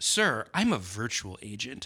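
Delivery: aggrieved, offended tone with swooping pitch. Retelling a phone caller's answer when asked if it is AI: mimicking an aggrieved voice. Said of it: "it said in an aggrieved voice".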